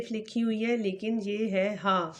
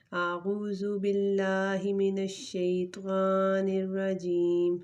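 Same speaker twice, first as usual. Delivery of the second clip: اعوذ باللہ recited slowly, Quranic chant style; slow recitation; much slower than usual. Shown as a demonstration. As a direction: intone it slowly like prayer recitation. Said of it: "تو شروع کرتے ہیں".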